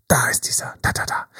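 breathless whisper of an inner lizard; hushed, secret whisper. Acted. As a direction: whisper it like a sly inner creature. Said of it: "die sagt".

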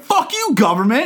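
angry protesters. Acted. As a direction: protest like an indignant townsperson. Acting out angry protesting city.

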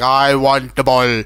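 low, slow mock-villain demand; Mark Strong imitation. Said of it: "we get to see Mark Strong".

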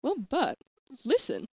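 lilting, swooping nanny; exaggerated up-and-down melody; Mary Poppins. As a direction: chide sweetly in sing-song. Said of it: "I'm Mary Poppins".

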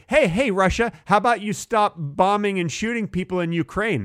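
hammed-up public appeal to a country; mock address to Russia.

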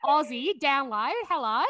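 a quick, lightly done Aussie accent; mock Aussie accent. Shown as a demonstration. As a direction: toss off a casual Aussie hello. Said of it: "I can't even do a New Zealand accent".

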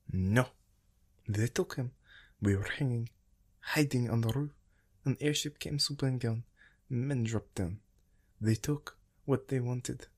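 a frantic mother reliving the raid; a mother telling strangers how her son was taken, frantic; angry desperate telling. A narrator's reading. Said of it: "gesturing angrily".

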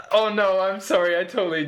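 high, loud flustered apology; embarrassed. Real, not acted. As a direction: blurt out an apology. Embarrassed at missing the joke.

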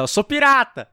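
high, loud gleeful shout; pirate yell. Retold or imitated. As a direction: yell it out the window like a mad pirate. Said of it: "e gritar".

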